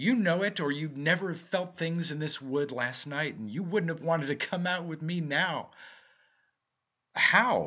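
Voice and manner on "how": high, loud, gasped single word. Narrator reads the first-person character's reply to his companion, gasping. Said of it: "I gasped".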